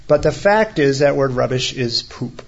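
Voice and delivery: ordinary talk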